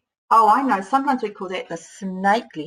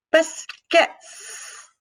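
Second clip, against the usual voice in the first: whispered sounding out; 8 semitones higher than usual. Shown as a demonstration. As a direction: whisper biscuits, stressing the final S. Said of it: "When I say the word biscuits".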